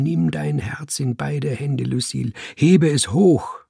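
lofty, stern Robespierre monologue; stern revolutionary. Acted. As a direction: preach the idea, cold and solemn. Robespierre's long speech to Lucille.

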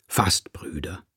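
breathy whisper, voice dropped away; whispered reveal. Acted. Narrator whispering the new word to the cat. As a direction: let the word slip out as a secret.

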